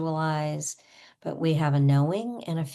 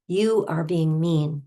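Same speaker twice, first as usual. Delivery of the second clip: slow, punched accusation; emphatic mock confrontation; pretend anger; 4 dB louder than usual. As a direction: accuse word by word, playing angry. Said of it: "especially with the anger".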